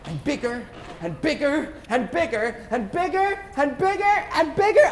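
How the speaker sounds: rising thrill; building up. Acted. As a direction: build excitement toward the burst. Building the light bigger.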